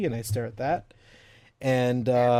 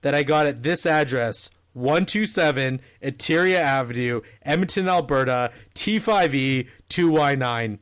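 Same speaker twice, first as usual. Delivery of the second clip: mock text read; 3 dB louder than usual. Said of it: "I'll read the exact text".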